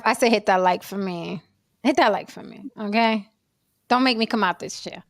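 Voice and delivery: mock stern. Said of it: "some of y'all are deaf".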